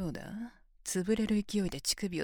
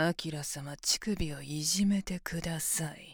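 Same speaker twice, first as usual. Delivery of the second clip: mock plea. Shown as a demonstration. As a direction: murmur the words he must beg. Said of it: "もっと大きな声で".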